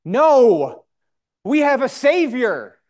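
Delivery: high, loud proclamation from the pulpit; emphatic rebuttal. Real, not acted. Preacher answering the crowd's cry for a pope, emphatic high proclamation. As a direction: throw it out high and forceful, countering the crowd.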